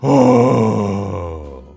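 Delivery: raw low distorted wail; low crying scream. Shown as a demonstration. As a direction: let out a low rasping cry. Scream demo sound.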